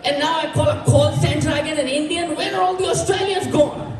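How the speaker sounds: mock yelling caller. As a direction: play the fed-up caller demanding an Aussie. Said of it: "I heard a man yell at me".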